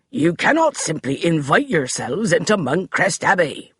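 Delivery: haughty butler voice; stiff declaration. Acted. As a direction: declare it with servant's pride. Finch voiced.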